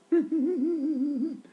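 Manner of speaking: put-on spanked child's noise. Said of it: "I'd have to do that noise".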